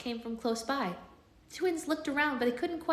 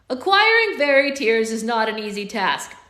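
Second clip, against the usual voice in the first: reading aloud; 10 dB louder than usual. Acted.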